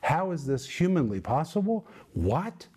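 rising questions of disbelief; preacher voicing Paul's astonishment; incredulous exclamation. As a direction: ask it like you can't believe what you see. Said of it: "it is an exclamation".

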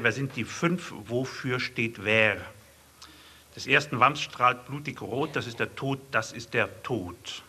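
hushed, mock-portentous poem reading; solemn poem recitation. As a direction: intone it like a grave allegory. Solemn allegorical poem read.

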